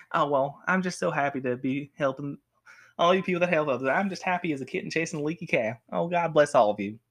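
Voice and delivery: happy Southern kid impression; lightly put-on Southern accent, gushing. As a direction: gush sweetly in a Southern accent. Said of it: "he's Southern for some reason".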